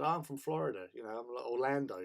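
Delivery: lightly put-on American accent. Telling the cubs his hometown, light American accent. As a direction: pass yourself off as American. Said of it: "put on this American accent".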